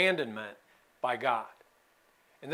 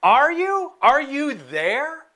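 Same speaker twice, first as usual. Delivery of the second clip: higher, pleading cry of are you there; desperate plea to God; 7 semitones higher than usual. Retold or imitated. Daniel crying out to an unanswering God, pleading higher. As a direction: reach up, begging to be heard. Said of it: "He's like".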